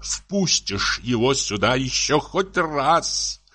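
slow, tearful threat; acted anguished anger, drawn out; muffled tearful voice. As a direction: drag out the threat as if near tears. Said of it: "заговорил он глухим, плачущим голосом".

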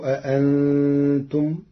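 أأنتم with the second hamza softened, slow and rising; Warsh reading. Shown as a demonstration. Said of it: "قرأ ورش كلمة أأنتم".

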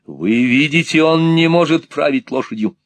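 high, loud, insistent cry; alarmed shout. Acted. Nicholas struggling for the reins, shouting.

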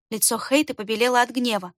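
ordinary delivery

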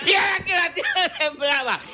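excited exclaim. Real, not acted. Climax of the quake story.

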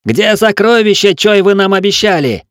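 high, loud furious wail; howling complaint. A narrator's reading. Mutinous gunner yells at the locked captain, furious howl. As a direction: howl the grievance through the door. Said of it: "продолжал разоряться стрелок".

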